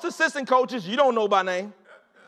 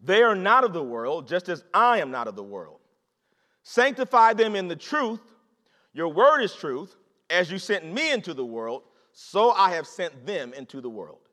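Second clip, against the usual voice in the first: lower, solemn scripture reading; Jesus praying; 4 semitones lower than usual. Acted. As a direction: read Jesus' prayer with reverent gravity. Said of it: "and he says this".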